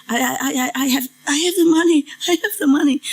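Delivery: imitating a scared, stuttering beggar in a high voice; high, quick stammered plea, acted out; begging. Hungry woman being shooed out, begging in a high stammer. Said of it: "Like begging for it".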